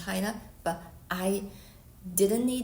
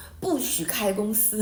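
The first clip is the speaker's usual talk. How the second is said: a firm, louder command in Chinese; powerful voice; 4 dB louder than usual. Retold or imitated. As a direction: give the order as the voice in the dream, loud and firm. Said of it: "In Chinese".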